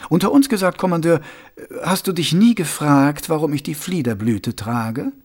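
sly, confiding ruler asking a pointed question; Vetinari voice. Acted.

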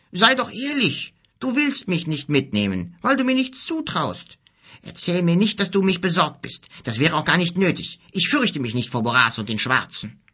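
high, heated protest; boy accusing his friend, angry and high; angry reproach. Acted. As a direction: throw the accusation back at him. Ado snorts, angry reproach.

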